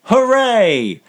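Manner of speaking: high-pitched hooray cheer; a dwarf's celebratory whoop. Acted. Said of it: "They typically say".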